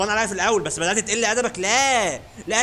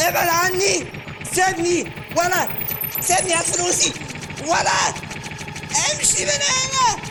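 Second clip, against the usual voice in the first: mock panicked yelling; 10 semitones higher, slower than usual. Streamer fights off the attacking cartoon, mock panicked shouts. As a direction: yell like a cartoon is mauling you.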